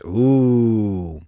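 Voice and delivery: loud, drawn-out ooh; intrigued ooh. Real, not acted. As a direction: let out a long reacting "ooh". Reacting to commenter's revelation.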